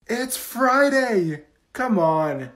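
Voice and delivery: excited. Acted. Peppy teacher rallies class.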